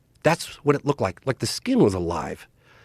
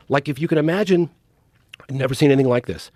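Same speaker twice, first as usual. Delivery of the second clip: normal talking voice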